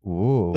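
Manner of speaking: drawn-out re-enacted woozy moan; woozy ooh. Carpenter retelling when he felt faint, mock woozy ooh. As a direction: imitate a sudden wave of wooziness. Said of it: "I just got so woozy".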